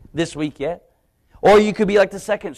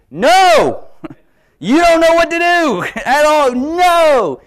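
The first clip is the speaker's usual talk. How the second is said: much higher and louder panicked no; inner scream; 12 semitones higher, 7 dB louder, much slower than usual. Retold or imitated. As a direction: scream it in your head, laughing through. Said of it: "mind was screaming at me".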